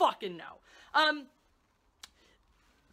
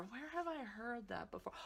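sarcastic; 15 dB quieter than usual. Real, not acted. Sarcastic setup, much softer.

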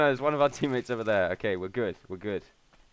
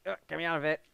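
ordinary talk, nothing marked

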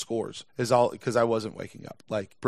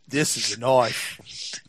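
movie hero quote; much slower than usual. Pretend. Quoting a film knife scene.

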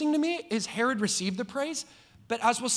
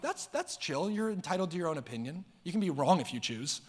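mock casual; 3 semitones lower, 5 dB quieter than usual. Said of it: "I'm like".

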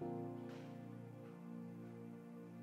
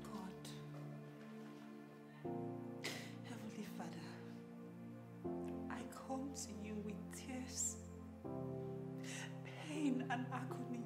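soft, low, pleading prayer; quiet prayer; 4 semitones lower, 15 dB quieter than usual. Acted. Wife praying alone after the quarrel, soft and pleading. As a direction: pour out your pain to God gently.

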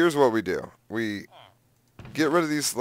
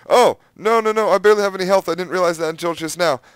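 panicked rush; 4 semitones higher, 6 dB louder, faster than usual. Real, not acted. Realizes he has low health.

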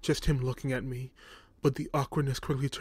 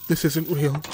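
trembling, scared whisper of denial; shaky voice; 2 semitones higher, 7 dB louder than usual. A narrator's reading. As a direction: voice shaking with fear. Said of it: "I said in a shaky voice".

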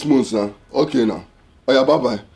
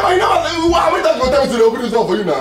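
mocking nagging wife; 5 semitones higher, faster than usual. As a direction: mimic a nagging wife, voice raised and laughing. Mocking wife's nagging words.

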